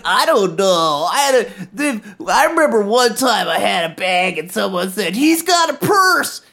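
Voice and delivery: unsure, hesitant mumble; hesitant vendor voice. Retold or imitated. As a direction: voice him as unsure and wary.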